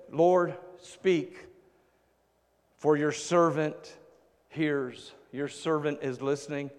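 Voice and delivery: soft, low and slow, like a humble servant; hushed humble reply. Acted. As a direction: murmur it quietly in reverent awe. Samuel answers God humbly.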